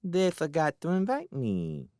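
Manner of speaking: put-on high, lisping child; sweet little voice. A narrator's reading. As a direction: innocent small-boy voice, pitched high. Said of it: "Twinkle's sweet little voice replied".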